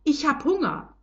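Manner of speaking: high, squeaky little mouse voice; a tiny mouse piping up, hungry; lightly voiced hungry dust mouse. A narrator's reading. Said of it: "mit seiner hohen, piepsigen Mäuschenstimme".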